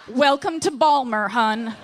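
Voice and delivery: put-on light Baltimore accent, "Balmer" with a friendly "hun"; a hint of a Baltimore librarian welcoming a newcomer. Librarian welcoming the newcomer, light Baltimore accent. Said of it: "Merlin Department".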